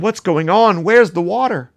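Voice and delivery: alarmed animals. Acted. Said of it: "And they said".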